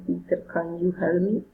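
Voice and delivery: "me" lifted at the end; rising question. Shown as a demonstration. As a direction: call him and rise on "me". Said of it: "Direct address, raising intonation".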